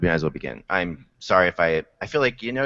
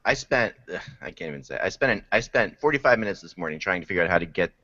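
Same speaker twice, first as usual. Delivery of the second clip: swollen throat, choking on the words; speaking through a puffy, swollen throat; swollen tonsils voice. Real, not acted. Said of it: "swollen to ten times its normal size".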